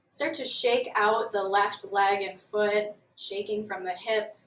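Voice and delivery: calm, measured yoga instructor voice; guided yoga. Real, not acted. Yoga teacher leading students through a grounding warm-up, calm guided delivery. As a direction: guide them gently through each movement, leaving long pauses.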